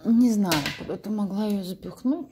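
normal talking voice

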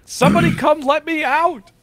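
loud, high-pitched yell; high, strained shouted demand; dog barking to be let out. Retold or imitated. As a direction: holler it out as the impatient dog. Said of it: "she was barking down there telling me".

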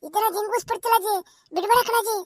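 furtive undertone, starting very soft; hushed warning. Acted. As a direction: warn granny discreetly so mourners don't hear. Discreet warning at a funeral.

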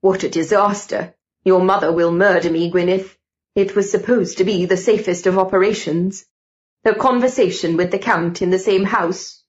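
lightly voiced gentleman fretting; a hint of an exasperated older colleague; dismayed Mister George.

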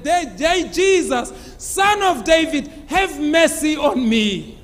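preacher's acted calling out; retold shout. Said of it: "I shouted at the top of my voice".

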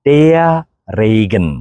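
ടെയ റെയ്ഗൻ with the article as ടെയ; German der Regen, article without r; correct der Regen. Shown as a demonstration. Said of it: "ഡർ റെയ്ഗൻ അല്ല".

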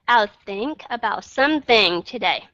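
"think" said slowly with the tongue between the teeth; slow model reading; slow demo. Shown as a demonstration. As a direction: draw out "I'll think about something today". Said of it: "có aspiration hay là không".

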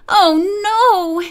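high, loud anguished cry; wail. A narrator's reading. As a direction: cry out in dismay. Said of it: "Emily wailed".

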